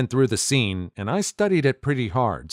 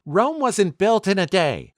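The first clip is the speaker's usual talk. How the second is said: mock yell, pitched way up and slower; narrated yell; 9 semitones higher than usual. A narrator's reading. Girlfriend snapping back about going to school, mock yell. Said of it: "and she yelled".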